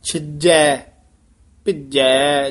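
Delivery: ਛਿਜੈ and ਭਿੱਜੈ with a light j; careful pronunciation. Shown as a demonstration. Teacher models both rhymes, ਛਿਜੈ and ਭਿੱਜੈ with plain j. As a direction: say ਛਿਜੈ, ਭਿੱਜੈ without a heavy jh. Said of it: "ਝੱਜਾ ਨਹੀਂ ਭਾਰਾ ਬੋਲਣਾ".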